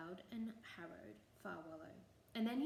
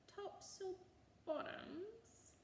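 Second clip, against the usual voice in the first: far higher, baffled repeat; puzzled boggart; 12 semitones higher, 4 dB quieter, much slower than usual. A narrator's reading. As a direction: say it back as if it makes no sense. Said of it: "he repeated".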